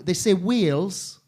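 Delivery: slow Welsh say of wheels; Welsh accent. Shown as a demonstration.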